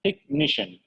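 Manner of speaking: تكنيشن said tek-ni-shen with no h, pitched high; تكنيشن with the h silent, tek at the start. Shown as a demonstration. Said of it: "الاتش هنا سايلنت".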